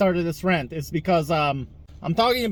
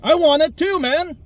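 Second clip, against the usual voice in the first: mock eager reply; 8 semitones higher, 3 dB louder than usual. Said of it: "I'm like".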